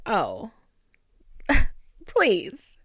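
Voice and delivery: giggly, delighted "oh please"; flirty laughing oh please; laughing swoon. Retold or imitated. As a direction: swoon with a laugh over the guy. Swooning over her type.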